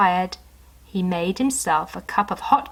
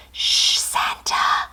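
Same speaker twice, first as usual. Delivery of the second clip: slow unvoiced hush; whisper; much slower than usual. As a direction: hush him under the breath. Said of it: "she whispered back".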